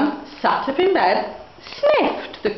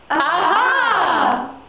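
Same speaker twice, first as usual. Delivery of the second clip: a higher, sudden "Aha!" of discovery; eureka cry; 4 semitones higher than usual. Acted. Old woman realizing how to move the turnip, exclaiming. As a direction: cry out as the idea strikes.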